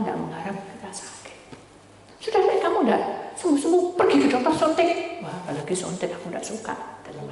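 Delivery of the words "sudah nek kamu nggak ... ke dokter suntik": high, quick mock mother nagging; mother insisting on an injection. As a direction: hurry him to the doctor like mom. Mother urging doctor visit.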